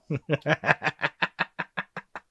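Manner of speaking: soft high villain chuckle; evil laugh. Pretend. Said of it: "before I finish my evil laughing".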